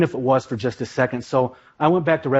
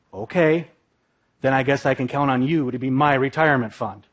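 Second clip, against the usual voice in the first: calm. Retold or imitated. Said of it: "very calmly say".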